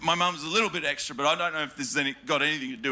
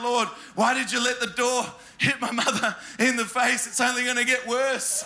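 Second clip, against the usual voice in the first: mock prayer; 5 semitones higher than usual. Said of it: "I'd be praying".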